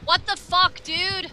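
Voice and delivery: loud, high-pitched exasperation; real angry outburst; outraged. Real, not acted. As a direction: protest in disbelief, voice jumping up. Outraged at being farmed.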